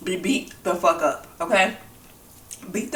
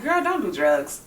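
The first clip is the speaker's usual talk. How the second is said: sarcastic quip. Pretend. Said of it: "people say that when they're being sarcastic".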